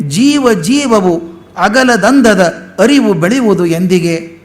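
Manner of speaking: slow, lilting recital of the verse; poem recitation. Shown as a demonstration. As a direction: savour each word like a song.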